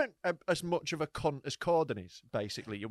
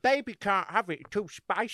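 slow, higher mock baby voice; mocking baby talk; 5 semitones higher than usual. S1 mocking S0 as a baby, slow and higher. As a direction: tease him like a fussy baby. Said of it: "but I can't let her know".

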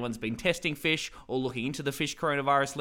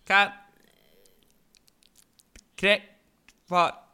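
mock bad line shout; 6 semitones higher, 6 dB louder, slower than usual. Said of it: "I'll play Tom".

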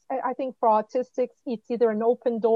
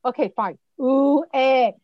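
put-on child giving in; 5 dB louder, slower than usual. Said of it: "he looked at me this way, like".

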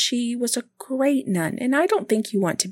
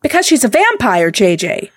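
emphatic; 6 dB louder than usual. Acted. Insisting loudly.

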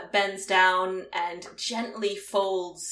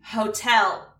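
metallic voice filter; 5 dB louder than usual. Acted. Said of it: "a metallic voice is going to say".

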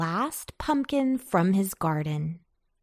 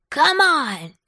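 high, loud rallying call; excited storybook summons; 8 semitones higher, 5 dB louder, slower than usual. A narrator's reading. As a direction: holler it high and stretch it out. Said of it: "called Pumpkin".

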